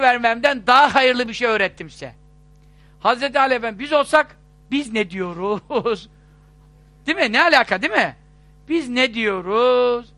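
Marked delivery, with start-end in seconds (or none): 4.7-6.1 drawn-out mock grumble; mock incredulous. Preacher voicing the congregation's doubt at the advice, mock incredulous. Imagines our muttered doubting reaction. 8.7-10.1 drawn-out mock grumble; mock incredulous. Preacher voicing the congregation's doubt at the advice, mock incredulous. Repeats the imagined doubting reaction.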